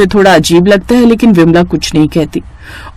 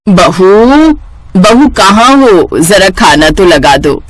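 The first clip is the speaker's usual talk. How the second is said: drawn-out slow call across the house; much slower than usual. Acted. Mother-in-law calling daughter-in-law for lunch, slow drawn-out call. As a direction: stretch बहू slowly, calling from another room. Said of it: "Vimla रिया को आवाज लगाती है".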